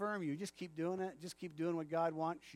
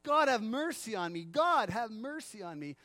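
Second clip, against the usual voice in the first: crying out; 3 semitones higher, 3 dB louder than usual. Retold or imitated. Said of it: "you start crying out".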